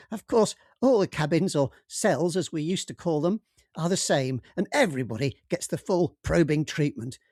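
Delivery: lightly voiced chatty alien. Alien captor Rawgib speaking.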